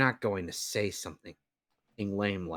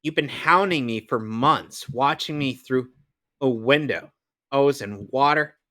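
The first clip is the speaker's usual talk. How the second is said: grand cartoon narrator, then hushed praise; dramatic cartoon voice; 3 semitones higher, 7 dB louder than usual. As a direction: announce it like a superhero show. Dubs cartoon heroes and narrator.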